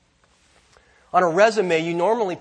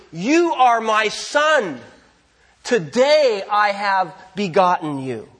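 lightly voiced divine proclamation, slowed down; God; slower than usual. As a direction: proclaim it slowly, as if crowning a king. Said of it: "God says to the king".

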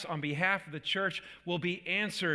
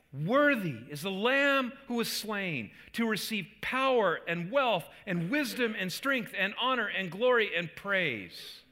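raised, ringing declaration of praise; loud proclamation; 4 semitones higher, 4 dB louder than usual. Acted. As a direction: proclaim it like a shouting throng, short of a full shout. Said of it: "In a loud voice they were saying".

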